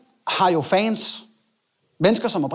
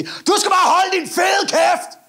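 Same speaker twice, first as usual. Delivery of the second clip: angry biker shout; 11 semitones higher, 3 dB louder, much slower than usual. Retold or imitated. Hells Angel shouting at him.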